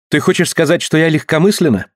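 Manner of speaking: high, indignant retort; a woman taking offence. Acted.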